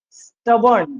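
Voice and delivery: स्टबर्न as STUB-ern, short vowels; correct pronunciation. Shown as a demonstration. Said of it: "क्या होता है ये".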